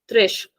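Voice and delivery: tresh, ending on a soft sh. Shown as a demonstration. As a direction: say tresh with the S softened to sh. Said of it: "we'll say a soft sound".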